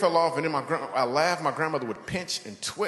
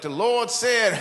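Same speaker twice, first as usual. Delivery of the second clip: higher, louder hammed-up sermon; mock fiery preacher; phlegmy preacher; 8 semitones higher, 4 dB louder than usual. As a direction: preach through a throat full of phlegm. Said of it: "He'd be like".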